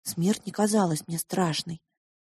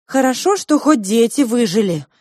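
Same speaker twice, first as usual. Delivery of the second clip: tearful; 5 semitones higher, 9 dB louder than usual. Acted. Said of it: "вытирала слёзы Диана".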